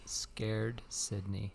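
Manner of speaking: drawn-out teasing whisper; slow spooky tease. Acted. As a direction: draw it out slowly to tease.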